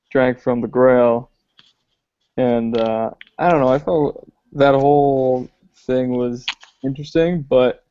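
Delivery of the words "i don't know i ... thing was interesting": understated doubt; politely unconvinced, a hint of disdain; faint disdain. Real, not acted. Giving co-host a lukewarm opinion of the ending, faintly disdainful. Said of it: "disdain in your voice".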